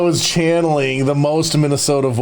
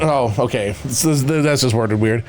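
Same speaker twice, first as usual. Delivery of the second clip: ordinary delivery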